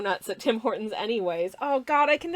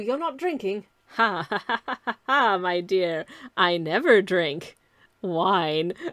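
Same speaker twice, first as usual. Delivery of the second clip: put-on vampire count voice; 4 semitones lower than usual. Speaker doing a Dracula riff while drawing, in a Dracula voice. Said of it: "It's such a silly line".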